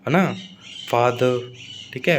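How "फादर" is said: "फादर" ending in a schwa, no R; British silent R. Shown as a demonstration. Teacher repeating a British example for students, "फादर" with silent R. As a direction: pronounce "फादर" the British way, dropping the final R. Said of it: "आर को बोला नहीं".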